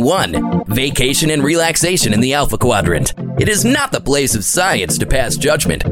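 put-on old documentary narrator recording. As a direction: play it like a vintage science reel. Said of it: "access an old recording".

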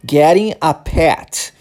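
getting a pet spoken slowly, flapped T in getting; slow model phrase with a clear final T on pet; slow careful demo. Shown as a demonstration. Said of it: "lembre-se disso".

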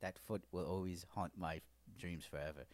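low, soft, composed understatement; calm butler. Retold or imitated. Butler reacting to a frostbitten foot, calm imitation. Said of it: "he was very calm. He was very put together".

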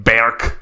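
"Berk" with a drawn, Scottish-coloured vowel; accented Berk. Shown as a demonstration. Host naming the Viking community, "Berk" in a Scottish-style accent. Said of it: "They pronounce it Berk".

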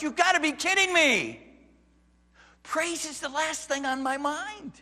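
loud, high, disbelieving protest; incredulous objection. Pretend. A persecuted believer protesting to Peter in disbelief. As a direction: push back as if it's absurd.

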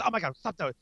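acted-out parental exclamation; exasperated parent. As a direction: interrupt yourself to stop a child. Parent interrupts own talk to scold.

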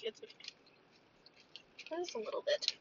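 unvoiced whisper, slow. Real, not acted. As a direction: breathe the words softly. Soft reassurance while eating.

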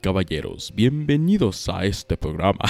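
booming Spanish ring announcer intro; lucha libre announcer. Pretend. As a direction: announce it like a wrestling MC. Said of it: "Ah, crap, I couldn't do it".

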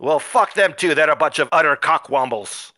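mock Scottish dwarf hurling insults; lightly put-on Scottish brogue, jeering; bad Scottish accent. Dwarf villain insulting the heroes in Scottish accent. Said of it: "The following Scottish insults".

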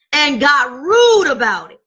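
a sudden loud burst; shouted indictment; preacher's shout. Real, not acted. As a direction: call it out hard to the congregation. Preacher punches the accusation.

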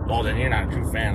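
imitating a superfan telling him he's no true fan; mock gatekeeping fan. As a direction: sneer it out like a know-it-all superfan. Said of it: "You know?".

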